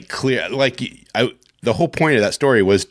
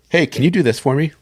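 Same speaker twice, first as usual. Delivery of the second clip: mock pestering; 7 semitones higher than usual. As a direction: playfully pester someone for a favor. Acts out pestering a friend.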